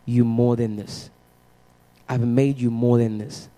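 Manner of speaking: low, slow and soft, as God's words; hushed, measured weight on each phrase; solemn divine quote. Retold or imitated. God speaking to a struggling teenager in church, solemn.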